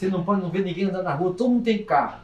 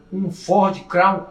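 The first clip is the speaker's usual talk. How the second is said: "um Ford Crown" very slow and louder; dramatic pause; 6 dB louder, much slower than usual. Real, not acted. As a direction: draw out "Ford Crown" for the reveal. Dramatic reveal of the old taxi. ("um Ford Crown" bem devagar e mais alto)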